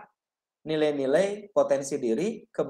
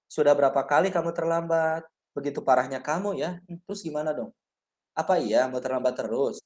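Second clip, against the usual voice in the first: flatter guilt-trip; 2 semitones lower than usual. Shown as a demonstration. Teacher gently shaming a student who is often late, flat talk. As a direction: talk it over flatly to make him feel bad. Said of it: "Jadi lebih datar ngobrolnya".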